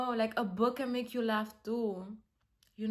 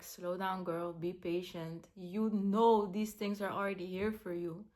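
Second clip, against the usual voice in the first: gentle self-talk; 4 semitones lower than usual. Retold or imitated. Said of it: "whenever I'm talking like this to myself".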